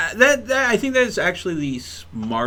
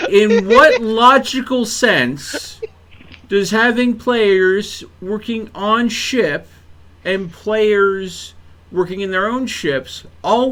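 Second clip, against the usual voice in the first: slow, louder, drawn-out mock whine at the devs; mock exasperated plea; 4 semitones higher, 4 dB louder, slower than usual. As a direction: drag each word out in comic disbelief.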